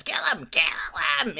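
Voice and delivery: high, loud yelling; Voldemort yelling over the struggle; yells. A narrator's reading. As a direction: scream the command. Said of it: "Voldemort's yells".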